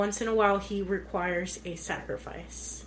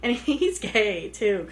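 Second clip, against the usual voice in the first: louder, laughing through the words; amused laughing; 4 dB louder than usual. Real, not acted. Co-host recalling the funny tutorial scene, amused and laughing. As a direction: let a real chuckle break up the line.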